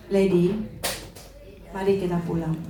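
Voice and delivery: lightly acted, low-pitched invitation; gently forgiving. Alex invites his wife to come home, gently forgiving.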